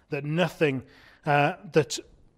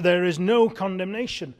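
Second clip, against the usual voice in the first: "no" leaned on in "no condemnation"; stress on "no"; 4 semitones higher, 4 dB louder than usual. Retold or imitated. Preacher relaying Paul's point to Christians, stress on "no". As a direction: put the weight on the word "no". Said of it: "Paul is emphasizing to these Christians".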